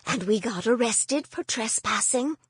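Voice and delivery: gently singsong Norwegian lilt; grandmother's lightly lilting Norwegian accent. Acted. Grandmother cheerfully admits the arrest, light Norwegian lilt. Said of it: "light Norwegian accent that turned her sentences into little songs".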